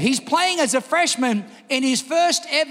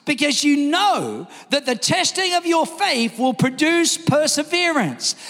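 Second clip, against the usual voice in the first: measured scripture read, slowing at the end; a solemn reading of James. Acted. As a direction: read it as holy writ. Reads scripture aloud.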